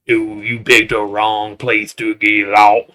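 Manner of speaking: slow, lightly attempted Louisiana bayou drawl; bad Louisiana accent. Bayou man warns intruders, poorly done Louisiana accent. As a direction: have a half-hearted go at a Louisiana accent. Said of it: "I can't even do the Louisiana accent".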